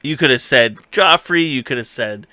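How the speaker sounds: Gendry's hammed-up indignant complaint; mock scolding. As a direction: lay into her for wasting the chance. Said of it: "giving her shit".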